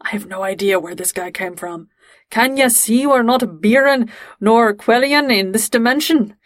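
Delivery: lightly voiced thick Scottish brogue; a hint of a thick Scottish accent on a crewman. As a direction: read it as a Scot with a heavy Scottish burr. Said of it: "says in this really thick Scottish accent".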